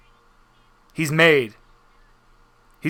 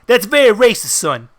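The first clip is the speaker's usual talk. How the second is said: scolding mobster; 4 semitones higher, 4 dB louder than usual. Acted. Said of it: "He just looks at you and goes".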